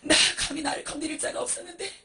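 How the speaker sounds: high, sobbing confession in waves; tearful repentance. Acted. Humbled monk confessing his wrong to Jesus, tearful begging. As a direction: plead brokenly, wailing the key admissions.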